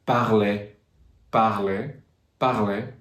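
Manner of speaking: PARLER ending in an open EH; French "parler" with the last vowel as EH. Shown as a demonstration. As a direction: demonstrate "parler" ending EH, repeated for learners. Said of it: "A little bit different".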